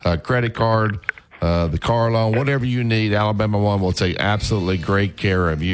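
upbeat radio sponsor read; radio host's sponsor plug for a credit union; live ad read. Acted. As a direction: sell it like a friendly host plug. Host reads sponsor ad.

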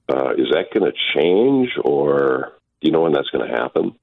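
thin phone-line caller voice; over the phone. Real, not acted. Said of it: "Let's go to the phone".

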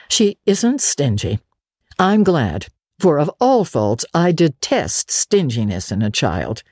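a hint of a dry, stern elderly woman; stern Marilla. Marilla warning Anne about work, mildly stern. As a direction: lay down the rules firmly. Guardian confides to brother.

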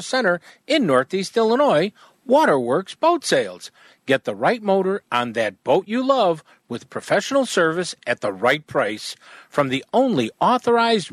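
upbeat live ad read; radio ad read. Acted. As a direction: sell it like a radio spot.

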